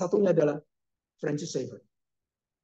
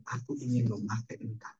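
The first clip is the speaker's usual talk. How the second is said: voice of God; 6 semitones lower, 7 dB quieter than usual. Acted. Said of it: "seolah Tuhan mengatakan".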